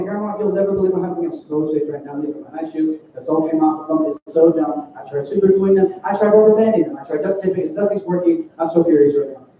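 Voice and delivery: mild grumbling complaint; venting to grandma. Retold or imitated. Speaker venting to grandmother about broken shoes, mild grumble. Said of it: "I will call her and say".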